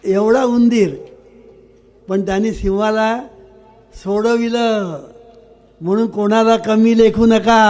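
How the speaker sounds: preaching the moral with force; emphatic moral. Acted. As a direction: hammer home the lesson to the crowd. Preacher drives home moral.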